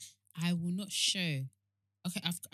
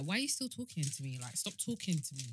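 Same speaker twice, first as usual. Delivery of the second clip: understated, rude impatience; rude brush-off. Acted. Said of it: "my rude one is".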